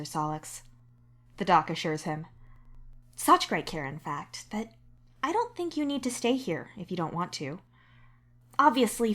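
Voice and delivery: the doctor giving measured, even advice. Acted. The doctor to the patient, calmly clearing them. The doc voiced again.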